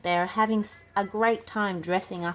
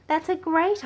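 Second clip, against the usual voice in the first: delighted agreement; 12 semitones higher, 5 dB louder than usual. Acted. Emma voiced delighted.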